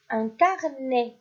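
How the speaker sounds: "Un insecte" drawn out slowly; teacher dictating slowly to children; slow dictation. Shown as a demonstration. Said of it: "Quatrième mot".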